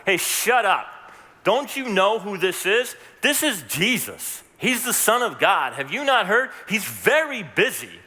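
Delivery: high, loud, slow mocking scold; a hammed-up crowd telling beggars to hush. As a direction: shush them like an officious crowd. Crowd hushing the blind men.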